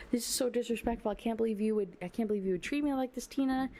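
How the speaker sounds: hammed-up hurt and indignation; offended boyfriend. Duncan scolds Tina for treating him like this, indignant. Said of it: "he's like".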